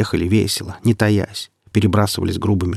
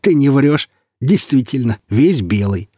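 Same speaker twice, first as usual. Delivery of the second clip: higher, louder mocking amusement; amused; 5 semitones higher, 4 dB louder than usual. A narrator's reading. Bandit chief to the white stranger, amused. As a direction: open high and loud as if amused. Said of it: "Он рассмеялся".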